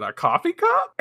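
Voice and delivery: puzzled guess. Retold or imitated. Ami peers at the clay vase, puzzled and high. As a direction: squeak up at a coffee cup.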